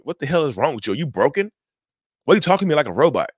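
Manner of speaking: high, loud, quickening angry challenge; losing it. Acted. Exasperated person confronting someone gray-rocking them, angry. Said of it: "they will lose their minds".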